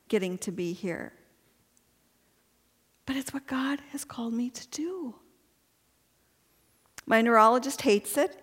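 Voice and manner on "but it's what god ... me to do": soft whispered confession, almost to herself; whispered aside. Real, not acted. Speaker to women's audience, whispered. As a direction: breathe it out like a secret. Quiet aside about her calling.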